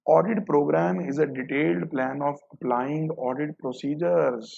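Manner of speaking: reading the option out slowly, word by word; slow, deliberate reading of an exam option. Shown as a demonstration. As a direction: dictate the option slowly for the class.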